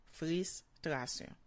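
"Frustration" slowly, in two separated parts; slow sounding out. Shown as a demonstration. Teacher repeating "Frustration" for learners, slow and divided. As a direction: leave a short gap after the first syllable of "Frustration".

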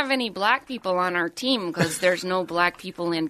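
lightly put-on Canadian accent. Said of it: "Your Canadian accent transitioned".

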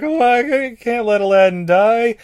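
high squawky parrot; Iago voice. Retold or imitated. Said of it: "he's like".

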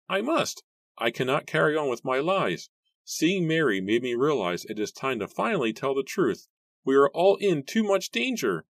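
put-on high, strained old man's confession; old man voice, desperate; anguished old man. A narrator's reading. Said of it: "Matthew choked out".

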